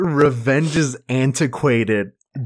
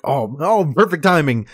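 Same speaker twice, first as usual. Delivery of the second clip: gleeful villain; 4 semitones higher, 3 dB louder, faster than usual. Retold or imitated. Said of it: "He's just like".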